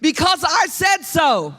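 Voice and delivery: high, slow shouted catchphrase; mom's cliche called out. Shown as a demonstration. Pastor leading the congregation, shouting the mom line. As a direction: belt it out like a stern mom. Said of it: "You have to say it after me".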